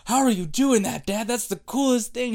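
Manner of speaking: put-on high, amazed little boy voice; a boy marveling at his dad; excited kid. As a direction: gush like a thrilled child. Child amazed, story of dad.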